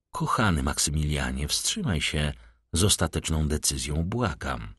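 a quiet, tender plea to a desperate friend; gentle. A narrator's reading. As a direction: gently beg him to wait. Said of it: "z niewysłowioną łagodnością".

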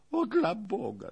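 servant crying out while being shaken; alarmed cry. Acted. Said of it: "zawołał Rzędzian". (piskliwy okrzyk trwogi)

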